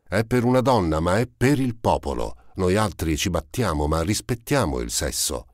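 put-on cheeky street boy. Gavroche boasting to Valjean about the letter, cocky street-boy voice. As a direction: swagger it out like a proud little urchin.

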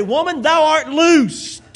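slow, weighty thou art loosed; King James phrasing. Shown as a demonstration. Preacher relishing the King James line for the church. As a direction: savor the old words. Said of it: "rolls off the tongue better to say".

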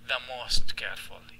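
the most careful very slow and deliberate; slow model phrase. Shown as a demonstration. Teacher dictates superlative form to students slowly. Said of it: "model superlative phrase".

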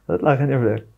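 said fast through a laugh; quick laughing repeat. Real, not acted. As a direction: laugh it out, told you so. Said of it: "مش بقول لك؟".

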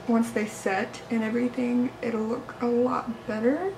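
slight lisp from teeth trays; lisping around mouth trays; with whitening tray. Real, not acted. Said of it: "I feel like I'm talking with a lisp".

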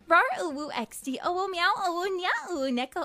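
lightly cutesy uwu voice reading emoticons. Shown as a demonstration. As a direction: rattle off the uwu words cutely. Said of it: "I will show you how it is usually done".

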